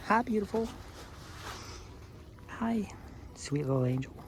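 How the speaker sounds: high, soft whispered coo. Real, not acted. Farmer cooing softly to her goat in a whisper.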